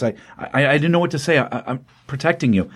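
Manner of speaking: imitated flustered stammer; halting, broken-up retold apology; stuttering. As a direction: restart the sentence on repeated words. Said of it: "not even making complete sentences".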